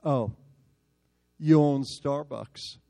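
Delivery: very slow, mocking retort; sarcastic drawl. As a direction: stretch it out with sarcasm. College boy's sarcastic comeback.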